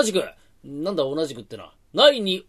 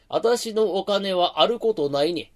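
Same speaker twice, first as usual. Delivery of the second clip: foreign pidgin Japanese; slower than usual. Acted. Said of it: "日本人か、おめえは。".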